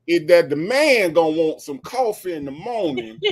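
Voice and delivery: lightly voiced folksy radio host, laughing through it; Steve Harvey impression. A hint of a radio host lecturing his co-host, amused. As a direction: play the host lecturing Shirley with a chuckle. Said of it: "And then Steve would come in".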